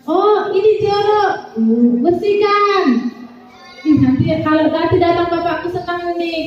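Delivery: lightly playing the cheerful child at work. Preacher voicing the boy scrubbing the car, cheerfully.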